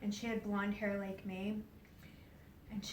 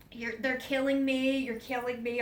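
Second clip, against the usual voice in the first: dramatic cry; 4 semitones higher, 7 dB louder than usual. Retold or imitated. Dramatic cries for help retold.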